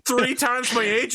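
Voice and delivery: high, incredulous mock voice; baffled at the absurd challenge; high mock disbelief; bewildered soldier. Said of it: "And the dude's like".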